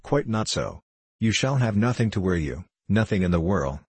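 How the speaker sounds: a hint of an assured Frenchman; lightly accented French gambler, untroubled by refusal; touch of French accent; lightly voiced French gambler.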